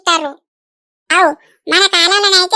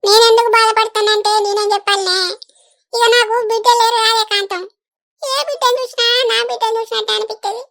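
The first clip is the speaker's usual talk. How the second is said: put-on higher, crying through the words over the girl's pain; tearful; 4 semitones higher than usual. Older woman to her friend, grieving over the operation, tearful. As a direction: voice cracking with tears as she laughs and cries. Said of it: "ఏడవకు లింగక్క".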